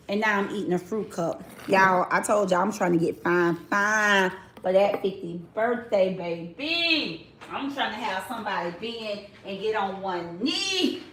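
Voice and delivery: chewing while talking; talking through a mouthful; mouth full. Real, not acted. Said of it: "excuse me, y'all, for crunching in y'all ear".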